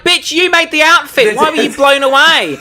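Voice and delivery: high-pitched, indignant outburst; incredulous retort. Retold or imitated. Telling Gigi's mother off for being blown away, incredulous. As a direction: scold in high-pitched disbelief. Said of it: "I was like".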